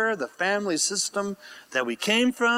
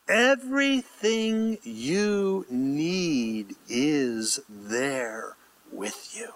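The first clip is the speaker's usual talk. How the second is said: hushed reassurance; 2 semitones lower, much slower than usual. Real, not acted. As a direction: draw it out tenderly, ending whispered. Reassuring listeners they are provided for.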